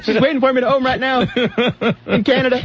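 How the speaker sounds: laughing. Acted. Mocking geek bragging, laughing.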